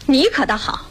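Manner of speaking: high-pitched, climbing reproach; loud scolding. Acted. Woman accusing the man who stayed away, loud scolding. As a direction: tell him off loudly, pitch rising to the end. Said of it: "别嚷嚷".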